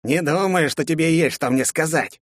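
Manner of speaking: high dry rustling undead voice; rustling skeleton voice. Acted. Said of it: "прошелестел скелет".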